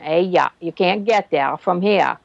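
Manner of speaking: slow Maine down east drawl; down east Maine accent. Shown as a demonstration. Telling friends how Mainers talk, slow Maine drawl. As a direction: drag it out like a Maine local, slowly. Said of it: "the down east accent".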